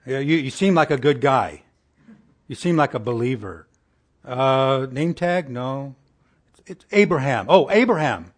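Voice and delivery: a hint of a casual, forgetful God fumbling a name; lightly voiced, offhand, guessing at a name; mock Lord who forgot the name. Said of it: "could you imagine the Lord saying".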